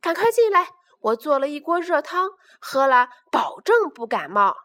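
high, loud call from the door; father calling the cubs in from the doorway; calling loudly. Acted. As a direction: call them in from far away. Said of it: "站在门口高声喊道".

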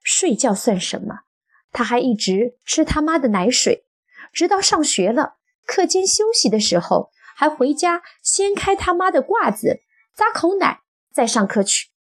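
high, mounting tell-all; gleeful exposé. A narrator's reading. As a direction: seize the chance to expose him, pitch climbing. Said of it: "女子趁势揭发道".

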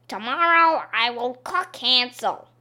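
hungry and impatient; impatient witch. Acted. Witch decides.

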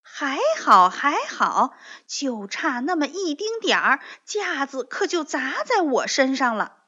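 high, loud annoyed complaint; angry. Acted. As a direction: grumble hotly at the near miss. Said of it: "蹦蹦生气地说". (生气地说)

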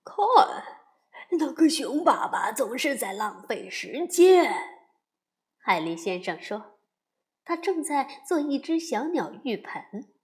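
sharp, disapproving Mr Beaver; a hint of a sniffy beaver; scoffing beaver.

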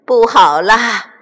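loud, drawn-out cry of alarm; panicked cry. A narrator's reading. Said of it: "惊慌地大喊".

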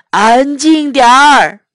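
loud, telling the animals off; grumpy order. Acted. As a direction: snap at the farm to hush. MacDonald orders quiet, Chinese.

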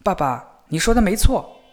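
a lightly voiced eager boy; eager young son. Younger son answers father earnestly.

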